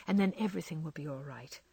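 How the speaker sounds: fast, hushed reassurance; soothing whisper. Acted. Laurie soothes Jo about her mother, soft whisper. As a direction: whisper it to calm her quickly. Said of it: "Soon your mother will be here".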